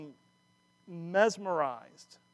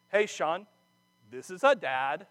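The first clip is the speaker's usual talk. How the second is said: stiff, slightly raised robot read, lifting on "a"; mock robot voice; 6 dB louder, slower than usual. Son mimics the phone robot reading dad's voicemail. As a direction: read it like a text-to-speech machine, a touch louder. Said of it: "how it was predicted on my phone by a robot".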